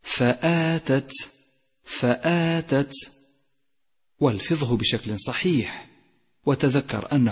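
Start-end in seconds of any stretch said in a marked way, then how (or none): 0.0-2.9 slow, higher فآتت with breath released on final ت; whispered-release taa. Shown as a demonstration. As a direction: draw out فآتت, let the last ت breathe. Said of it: "لاحظ صفة الهمس". (ترتيل فآتت مع همس التاء)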